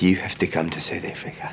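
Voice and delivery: lightly imitated South African accent. Retelling a phone call from a music man, lightly imitated South African accent. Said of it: "I talk like him all the time".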